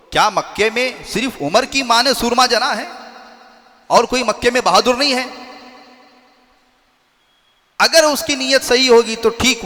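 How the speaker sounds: fierce, daring call-out; bold challenge. Acted. Hamza challenging the companions, a defiant shout.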